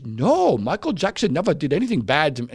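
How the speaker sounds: lightly voiced little boy, accent slipping; a hint of an innocent child witness; attempted kid voice. Host imitating a little boy on the stand, lightly voiced kid. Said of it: "I'm trying to be a kid here".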